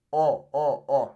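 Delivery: "O" as a round, pure Spanish vowel; pure O sound. Shown as a demonstration. Teacher drills the vowel in chocolate, pure O. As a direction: repeat "O" cleanly, no glide. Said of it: "You really hear that O sound".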